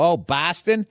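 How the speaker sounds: mock Midwest "Boston" with a flat, nasal-free long o; Midwest accent. Bostonian mocking how outsiders say the city name. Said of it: "that's how people from the Midwest say it".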